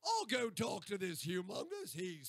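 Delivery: exaggerated Australian accent demo. Shown as a demonstration. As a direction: demonstrate a broad Aussie accent. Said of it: "and then we get Australian".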